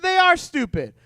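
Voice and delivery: "are" punched high and loud; stress on ARE. Real, not acted. Youth pastor agreeing with the middle schooler, pressing on "are". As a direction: lean hard on "are" in "They are stupid".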